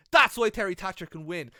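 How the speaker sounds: loud, eager play-by-play call; hyped commentator. Retold or imitated. Rookie commentator overhyping the match, loud and eager. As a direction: sell it like an overexcited rookie commentator. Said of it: "So I'd be like".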